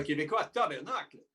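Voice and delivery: put-on Quebecois French accent. Shown as a demonstration. British guest joking about Montreal, mock Quebecois accent.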